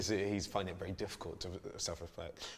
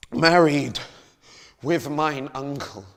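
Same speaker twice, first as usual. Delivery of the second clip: louder, higher, slow and furious; loud furious outburst; 7 semitones higher, 16 dB louder, slower than usual. Acted. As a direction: hurl the words out in rage. S0 second take, loud and slow.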